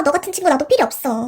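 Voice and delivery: usual speaking voice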